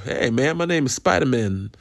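joking superhero introduction. Acted. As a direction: introduce yourself as a silly hero with a surname-like name. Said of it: "Jewish superhero".

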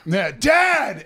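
high, loud shout through laughter; mock kid's shout. Dad imitating his kid in line, laughing shout. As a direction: holler it out like an oblivious kid.

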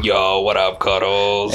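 hammed-up New Jersey accent. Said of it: "You're only allowed to say that with a New Jersey accent".

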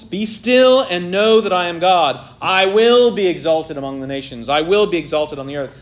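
stern divine decree; commanding rebuke. Shown as a demonstration. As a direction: order the rebels to stand down. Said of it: "God is confronting the rebellious nations".

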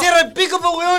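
put-on Chilean accent. Mock Chilean shout.

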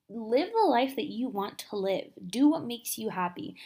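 breathless, pushing the words out; out of breath. Real, not acted. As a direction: talk while short of breath. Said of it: "I'm so out of breath".

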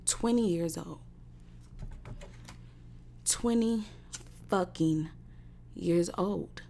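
spaced out in disbelief; word by word. Real, not acted. Slow emphatic pauses on age.

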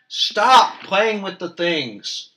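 loud, high burst on "stop", drawn out; exasperated order to quit it; annoyed scolding. Acted. Scolding a friend for fiddling during the story, annoyed.

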